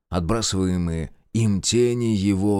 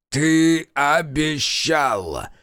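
slow, strained croak of a dying god; hoarse dying rasp; 4 semitones higher, much slower than usual. Acted. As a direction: force it out with the last breath. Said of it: "прохрипел умирающий бог". (хриплый голос умирающего)

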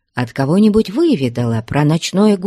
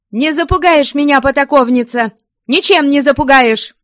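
high, loud defiant shout; 11 semitones higher, 6 dB louder than usual. A narrator's reading. Ustinya shouts back at Flyonushka, loud and defiant. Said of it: "кричала Устинья".

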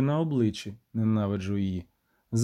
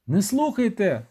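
higher shout of Не слухайте; shouted warning; 6 semitones higher than usual. A narrator's reading. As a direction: yell at the soldiers not to listen. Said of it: "закричав я". (крик-попередження)

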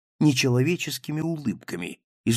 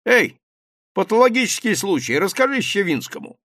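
calling out; 8 semitones higher, 6 dB louder than usual. A narrator's reading. Calling a man across room.

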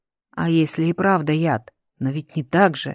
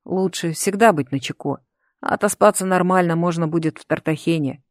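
usual speaking voice

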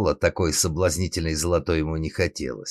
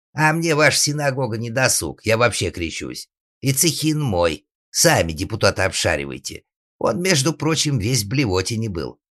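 higher-pitched cheeky shout; shouting back; 5 semitones higher, 4 dB louder than usual. Acted. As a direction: holler defiance from the shed roof. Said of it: "оттуда прокричал Алексу".

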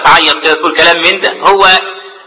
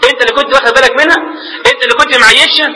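higher-pitched taunting questions; retold rebuke; 5 semitones higher than usual. Accusers scold the unconscious man over his sister's praise, imitated rebuke. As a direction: throw each praise back as a mock accusation. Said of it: "يقول هذا كان تقريعا له".

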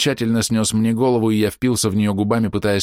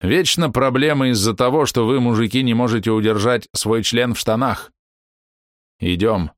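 exasperated scolding; 3 semitones higher than usual. Acted. Grandmother scolds grandson.

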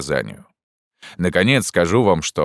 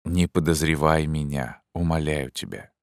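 pleading; 4 dB quieter than usual. Acted. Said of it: "сказал с глубоким волнением".

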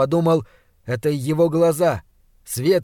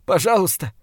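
sobbing plea; 3 semitones higher than usual. Acted. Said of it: "Я начал всхлипывать".

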